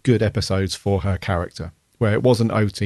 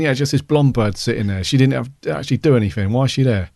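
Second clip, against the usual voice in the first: put-on light Geordie accent; 2 semitones higher than usual. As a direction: say it like a Geordie from Newcastle. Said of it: "This was a bunch of Geordies saying this".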